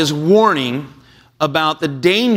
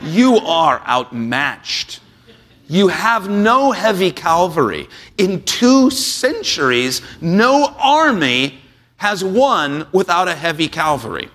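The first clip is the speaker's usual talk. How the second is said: put-on slow, haughty English officer in an English accent; mock English accent, lightly done; 2 semitones higher than usual. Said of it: "It sounds much better in an English accent".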